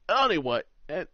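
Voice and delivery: loud, pompous lawyer slipping into Australian; accidental Australian accent. Acted. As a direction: bluster with an Australian twang. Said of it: "Stop going Australian".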